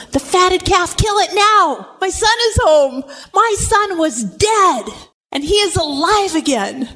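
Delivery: high, drawn-out joyful proclamation; rejoicing father. Retold or imitated. Father voiced rejoicing over returned son.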